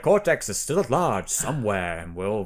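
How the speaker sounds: a hint of old-timey newsreel announcer; lightly voiced vintage radio announcer; 1920s newscaster voice. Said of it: "a nineteen twenties newscaster voice".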